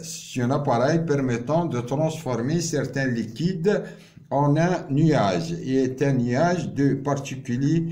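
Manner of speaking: very slow, word by word, for students to write down; slow dictation. Shown as a demonstration. Teacher dictating a definition to students, very slow and deliberate. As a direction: spell it out slowly so the class can copy. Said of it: "teacher dictating the definition".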